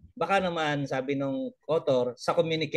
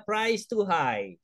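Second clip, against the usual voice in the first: slow deliberate reply; 5 semitones higher, much slower than usual. Retold or imitated. Husband's reply read slowly.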